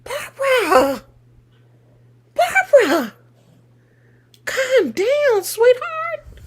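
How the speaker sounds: high, sing-song taunting of Barbara; mocking. Real, not acted. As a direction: coo at her condescendingly. Mocking the angry viewer Barbara.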